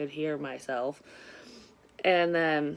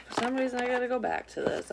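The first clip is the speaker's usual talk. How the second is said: much higher and at normal speed; higher repeat; 7 semitones higher than usual. Shown as a demonstration. Repeating the card message to viewers, pitched up high. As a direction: say it again up high, more briskly.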